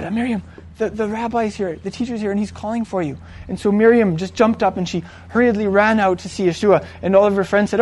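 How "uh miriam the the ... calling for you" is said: softer, confiding words to her sister; quiet aside. Acted. Martha takes her sister aside.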